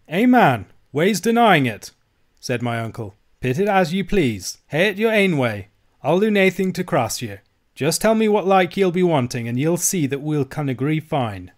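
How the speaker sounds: put-on high, loud old Scots voice; uncle placating. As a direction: appease him in broad, anxious Scots.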